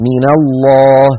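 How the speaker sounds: slow recitation, من joined as mina to الله; nun given fatha. Shown as a demonstration. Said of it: "فصارت".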